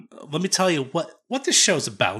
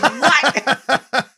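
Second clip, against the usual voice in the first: loud, high-pitched baffled cry; hammed-up incomprehension, pitched way up; baffled reaction; 12 semitones higher, 6 dB louder than usual. Retelling his bafflement at a coworker, loud and high.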